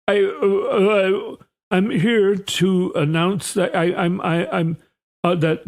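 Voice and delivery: halting, stumbling, repeating every word; a flustered official who can't get the sentence out; stammering Bessent impression. Treasury chief stammering through a press conference announcement. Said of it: "so he's talking like this".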